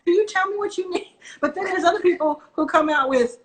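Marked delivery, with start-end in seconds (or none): 0.0-1.2 pitched up, brisk and businesslike; a hint of a clear, confident founder; mock direct ask. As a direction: voice the good pitch as crisp and to the point.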